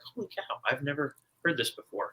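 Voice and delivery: a touch of surprise, softly; mock amazement. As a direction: pretend to be startled on rereading. Rereading a book surprised.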